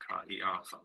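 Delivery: "Ka, e, a, thos" with "Ka" and "e" as two syllables; vowels pronounced separately. Shown as a demonstration. Teacher repeating the Greek name, "Ka, e, a, thos" with split vowels. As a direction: keep each vowel distinct in "Ka, e, a, thos". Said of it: "need to be pronounced separately".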